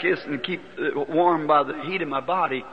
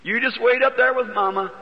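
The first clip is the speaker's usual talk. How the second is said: tender farewell; 4 semitones higher than usual. Retold or imitated. Farewell to dying daughter.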